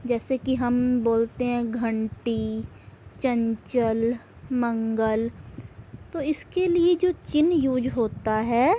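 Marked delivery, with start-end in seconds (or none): 1.7-5.3 घंटी, चंचल, मंगल with clear nasal n sounds; nasal anusvar. Shown as a demonstration. Teacher showing students sounds made through the nose, nasal anusvar. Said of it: "इसका उच्चारण नाक से होता है".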